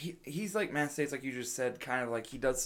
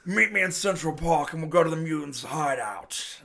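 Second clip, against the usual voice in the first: louder, hammed-up supervillain invitation; superhero-movie villain; 2 semitones higher, 5 dB louder than usual. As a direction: summon him like a comic-book villain. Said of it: "A villain from a superhero movie".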